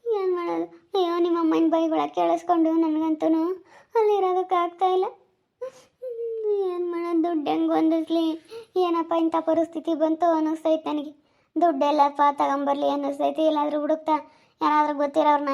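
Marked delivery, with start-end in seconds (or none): 0.1-11.2 higher-pitched tearful complaint. Acted. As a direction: lament helplessly, close to crying. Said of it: "ನೀನ್ ಯಾಕೆ ಹಂಗ್ ಅಳ್ತೀಯ?".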